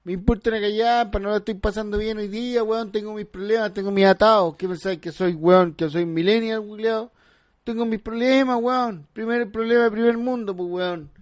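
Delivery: gruff mother ranting; mother with man's voice. Acted. Mom ranting at her son about her problems. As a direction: play the tired mom, gruff and fed up. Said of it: "¿por qué habláis como voz de hombre?".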